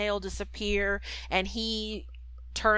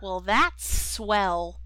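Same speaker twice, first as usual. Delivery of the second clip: bashful Jiminy; much slower than usual. Retold or imitated. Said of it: "He's like".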